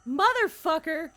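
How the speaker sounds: loud furious yell; angry shout. Real, not acted. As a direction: swear it out loud in frustration. Cheated by game character, yelling.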